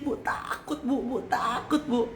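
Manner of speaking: high, laughing imitation of a frightened whine; mock whiny fear. Preacher mimics a scared church member, high and laughing. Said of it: "Kalau kita dikit-dikit".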